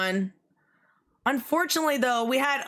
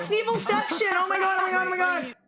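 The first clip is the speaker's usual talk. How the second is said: shrieking jackpot winner; 7 semitones higher, faster than usual. Real, not acted. Streamer reacts to surprising raid.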